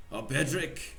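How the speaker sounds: struggling attempt at a Russian accent. Game master as Pavlov greeting Bedřich, Russian accent. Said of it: "How do you do a fucking Russian accent".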